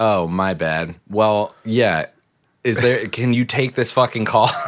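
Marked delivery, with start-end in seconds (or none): 0.0-1.0 deadpan, very flat, low, dead-level voice. Acting out their own sarcastic response, very flat delivery. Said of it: "I give a very flat like".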